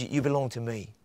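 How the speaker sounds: low-key, soft and reassuring; quiet, affectionate assurance; tender claiming. Acted. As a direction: claim her gently as your own child. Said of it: "how does he say that?".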